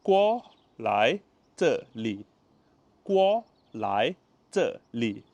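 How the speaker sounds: guo lai zhe li said clearly twice; Mandarin demo. Shown as a demonstration. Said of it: "come here in Mandarin is called".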